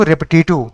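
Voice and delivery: "रेपिटेटिव" sounded out by its spelling; memory-aid pronunciation. Shown as a demonstration. Teacher tricking the mind to remember spelling, "रेपिटेटिव" deliberately sounded out. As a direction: read "रेपिटेटिव" as written, to fix the vowels in memory. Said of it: "ऐसे पढ़ो".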